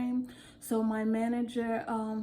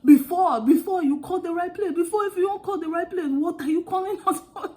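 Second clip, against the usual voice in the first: exasperated outburst; 7 semitones higher, 9 dB louder, faster than usual. Retold or imitated. Tired agent's inner outburst.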